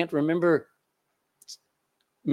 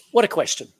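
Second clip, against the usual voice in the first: higher, louder marvelling exclamation; emphatic exclamation; 4 semitones higher, 4 dB louder than usual. Acted. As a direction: proclaim it to the whole room. Repeated exclamation.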